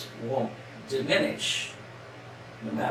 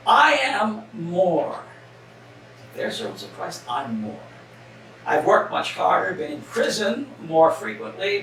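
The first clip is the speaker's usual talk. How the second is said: scripture reading. Acted. Pastor reading Paul's letter to the congregation, rising fervor. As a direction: read Paul's hardships with mounting intensity.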